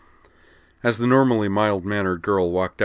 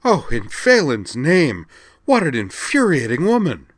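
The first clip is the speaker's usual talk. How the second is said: exasperated outburst; 9 semitones higher, 9 dB louder than usual. A narrator's reading. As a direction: let the rage burst out.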